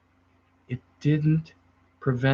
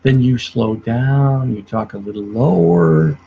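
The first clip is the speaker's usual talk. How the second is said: slowing down; 2 semitones lower, slower than usual. Shown as a demonstration. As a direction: ease off and drop the pace to show mirroring. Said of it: "So if they talk a little slow".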